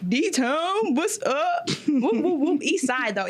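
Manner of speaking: loud, high, hyped call-out with a laugh; hometown shout-out. Real, not acted. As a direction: shout out your city like a hype man.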